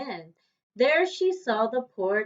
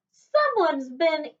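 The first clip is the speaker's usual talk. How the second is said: middle-sized voice; 4 semitones higher than usual. Acted. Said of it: "in her middle-sized voice".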